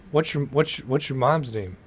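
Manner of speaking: flat, quiet robot voice; monotone robot delivery. Pretend. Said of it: "You like that robot voice".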